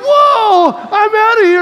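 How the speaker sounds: loud, high startled bail-out; mock panic. Boy running from the BB gun, mock panic. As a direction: cry out as you turn to flee.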